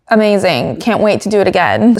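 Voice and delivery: deadpan sarcastic quote, no lift in pitch; super sarcastic. Retold or imitated. Driver answering what he thought of the event, sarcastic. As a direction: imitate an unimpressed, sarcastic reply. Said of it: "Super sarcastically".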